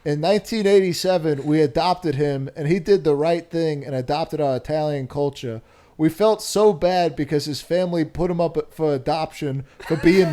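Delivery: a hint of a grieving Italian relative, loud and earnest; mock memorial post. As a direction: read it like a heartfelt tribute. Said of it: "It was".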